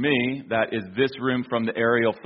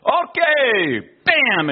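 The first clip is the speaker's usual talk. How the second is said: high, loud mock official stamping; hammed-up official, high and loud; mock stamping bam; 12 semitones higher, 6 dB louder, much slower than usual. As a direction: belt out the bam like slamming the stamp down. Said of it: "he goes like this".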